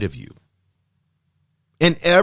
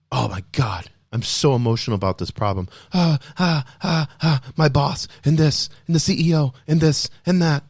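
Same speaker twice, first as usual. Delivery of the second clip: mock panicked worker. Self-help speaker mocking a stressed listener, flustered. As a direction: act out someone overwhelmed by work stress.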